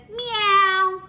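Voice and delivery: drawn-out, even kitty meow; kitty cat meow. Pretend. Teacher showing a toddler what a cat says, drawn-out meows. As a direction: stretch out a gentle imitation meow. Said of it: "Cat says".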